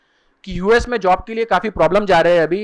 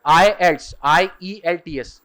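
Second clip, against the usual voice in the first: ordinary delivery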